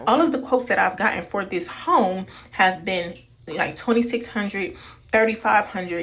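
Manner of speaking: muffled behind a face mask; through a face mask. Real, not acted. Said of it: "Excuse the mask on my face".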